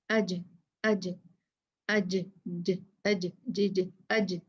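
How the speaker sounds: अज with the jeem said quickly and released; quick jeem bounce in अज; qalqalah on jeem. Shown as a demonstration. Teacher drilling students on the jeem in अज. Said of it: "जल्दी से जीम कह के इसको छोड़ देंगे".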